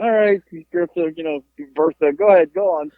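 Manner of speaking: lightly voiced old person; a hint of an old motorist urging departure; imitated old driver. Old driver telling Bertha to go on, lightly imitated old voice. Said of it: "they were old people".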